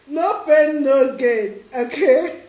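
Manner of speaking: loud repeat breaking into real laughter; laughing. Real, not acted. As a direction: say it emphatically, then crack up. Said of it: "sorry I'm laughing though".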